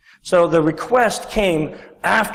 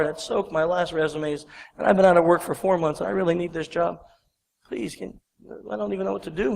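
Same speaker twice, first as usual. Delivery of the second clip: feigned sadness; 6 dB quieter than usual. Acted. Distraught jobseeker pleading with a receptionist, mildly sad. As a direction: play it sad and softer, trailing away. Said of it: "I could show sadness".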